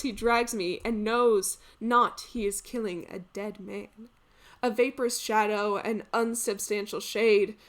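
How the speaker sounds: declamatory classical lament, swelling to loud despair; tragic hero lamenting. Acted. Deceived hero lamenting his coming death, theatrical despair. Resumes Sophocles tragic monologue.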